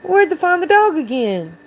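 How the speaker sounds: Yorkshire man hailing a lad; Yorkshire accent. A narrator's reading. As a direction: call out in broad Yorkshire. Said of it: "one of the men calling out".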